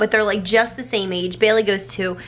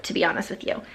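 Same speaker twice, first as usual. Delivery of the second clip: whispered; 2 semitones lower, 7 dB quieter, faster than usual. Real, not acted. Confiding aside, whispered.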